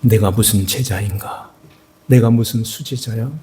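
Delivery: lightly voiced weeping regret; broken lament. Peter weeping after the rooster crows, broken. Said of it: "통곡하면서 가슴을 치면서".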